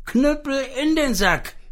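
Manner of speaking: called command. Acted. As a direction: call the club back, high. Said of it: "rief es".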